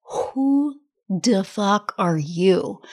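slow, drawn-out amazed question; stunned disbelief. Retold or imitated. Mastermind peers reacting to her transformation, slow stunned disbelief. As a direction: let the disbelief stretch each word. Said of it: "everybody there was like".

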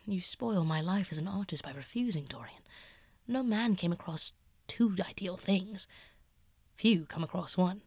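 lightly voiced painter, half-hushed and earnest. Basil confessing to Dorian, hushed and earnest.

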